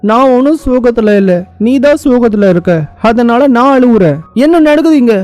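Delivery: high-pitched, mock-upset fretting; tearful bewilderment. Puzzling over crying for another's sorrow, tearful bewilderment. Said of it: "நான் ஏன் அழுவுறேன்".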